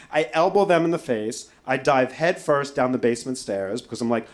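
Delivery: ordinary delivery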